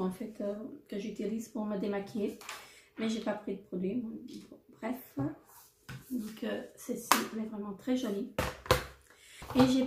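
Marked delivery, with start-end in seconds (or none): 4.5-5.2 a hushed, unvoiced brush-off; whispered aside. Real, not acted. Vlogger cutting her tangent short in a whisper. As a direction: mutter it under your breath and move on.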